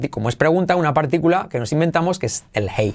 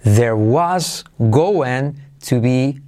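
slow model sentence; 3 semitones lower, much slower than usual. Shown as a demonstration. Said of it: "¿Cómo será?".

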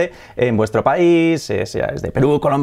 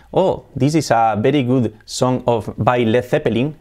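slow English with a hispanicized band name; English sentence in a Spanish accent; slower than usual. Shown as a demonstration. Teacher mimicking what no native would say, Spanish-accented English. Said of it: "No diría el nombre de la banda así".

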